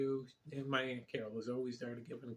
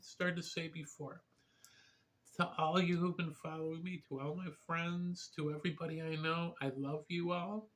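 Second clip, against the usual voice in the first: getting emotional; 4 semitones higher than usual. Real, not acted. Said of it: "I'm getting emotional".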